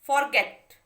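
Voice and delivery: फॉरगेट said loud with weight on गेट; stress on last syllable. Shown as a demonstration. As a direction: land firmly on गेट in फॉरगेट. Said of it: "आप ध्यान देना".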